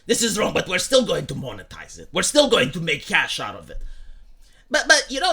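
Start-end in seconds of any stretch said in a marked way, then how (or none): 0.1-3.8 lower, sneering impersonation of a sanctimonious Democrat; mocking Democrat voice. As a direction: drop the voice low and mock their piety. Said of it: "the Democrats go like".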